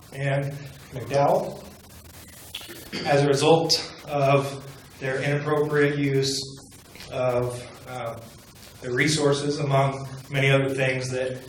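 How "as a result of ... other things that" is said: nervous, trembling voice; shaky nervous voice. Real, not acted. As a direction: voice shaking with nerves. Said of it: "you can hear my voice shaking".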